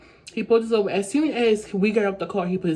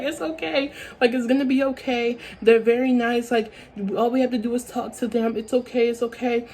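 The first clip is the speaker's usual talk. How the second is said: soothing; 3 semitones higher than usual. Retold or imitated. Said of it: "So I'm trying to comfort him".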